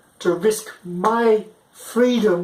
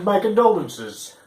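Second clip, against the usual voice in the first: solemn condolence; 3 semitones higher, slower than usual. Retold or imitated. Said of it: "So I've said".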